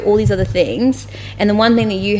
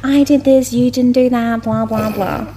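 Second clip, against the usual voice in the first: mock bickering; 3 semitones higher than usual. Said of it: "this vicious cycle of".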